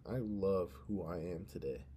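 mean it the second time; sincere repeat. Shown as a demonstration. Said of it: "let me say that again".

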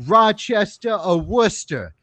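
lightly imitated Boston accent; Boston pronunciation with dropped r in "Rochester". Bar patron asking about funny local words, Boston accent. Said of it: "people talk about the Boston accent".

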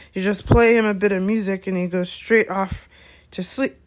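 chatty, boastful Hagrid; a hint of a rambling, tipsy storyteller; lightly voiced Hagrid. Hagrid tells how to calm Fluffy, chatty.

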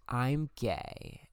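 a touch unconfident. Retold or imitated. Coming out to sister, mildly unconfident. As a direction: say it hesitantly, barely committing. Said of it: "I said it very unconfidently".

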